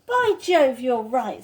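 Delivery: Peter's voice, excited. Acted. Peter agrees with Susan, excited. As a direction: burst out in delight.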